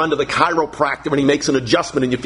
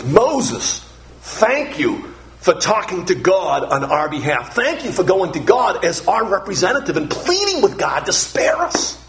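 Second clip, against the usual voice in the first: mild grateful people; 3 semitones higher than usual. Acted. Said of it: "should have said to Moses".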